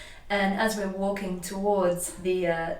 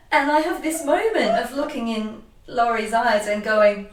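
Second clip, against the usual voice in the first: louder, higher, half laughing, half crying; overwhelmed, laughing while near tears; laughing through tears; 5 semitones higher, 6 dB louder than usual. Real, not acted. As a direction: let the laugh and tears break in. Emotional recognition, laughing and crying.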